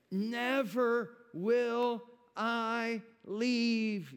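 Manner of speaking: heavenly Father promising never to leave, slow and reassuring; God comforting. Acted. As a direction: speak as the Father holding his child. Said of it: "your heavenly Father to come around you today and say".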